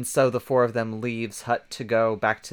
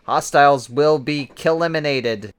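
lightly voiced robot threat; 4 dB louder than usual. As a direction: deliver it like a machine, mildly. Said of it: "in a robotic voice".

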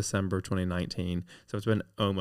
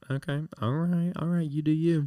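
dismissive; 7 semitones higher than usual. Retold or imitated. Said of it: "and I was like".

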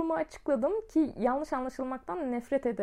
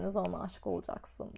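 mocking echo; 7 semitones lower, 9 dB quieter than usual.

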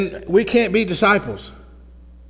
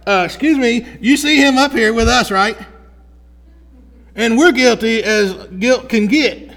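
indignant criminal; 4 semitones higher, 5 dB louder than usual. Acted. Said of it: "he's like".

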